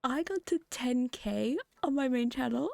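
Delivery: hoarse, voice nearly gone; rough voice after losing it. Real, not acted. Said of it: "I've lost my voice".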